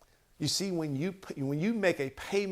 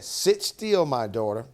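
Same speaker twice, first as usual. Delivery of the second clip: louder, slow, earnest counsel; a touch of tender advice; 6 dB louder, slower than usual. Retold or imitated. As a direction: lean in and steady her, slowly. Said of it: "she said".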